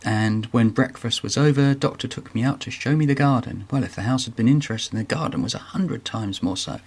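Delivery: reading the book aloud in a gentle storytelling voice; lightly voiced story narration. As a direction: read it like a children's story. Reads book passage aloud.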